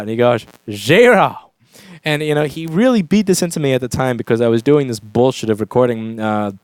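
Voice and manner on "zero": put-on toothless old Texan, mushy consonants; Texas accent. Elderly studio man answering a young engineer, toothless Texas accent. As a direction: mimic an elderly Texan's blunt verdict. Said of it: "with this Texas accent".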